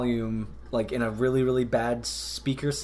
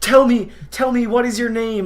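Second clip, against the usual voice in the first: high, loud dramatic demand; ghost hunter voice; 9 semitones higher, 8 dB louder than usual. Retold or imitated. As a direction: call out to the spirit. Ghost show host quote.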